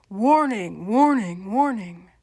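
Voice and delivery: loud, wavering siren-like warning; mock alarm. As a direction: sound a playful alarm, swooping up and down. Mock alarm before showing a picture.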